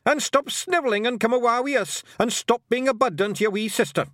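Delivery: high, loud Scots scolding; hectoring Scottish pixie yell; shouted. Acted. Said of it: "shouted Rob Anybody".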